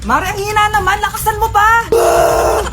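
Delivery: hammed-up pushing and yelling; mock labor shouting. Acted childbirth, shouting and pushing.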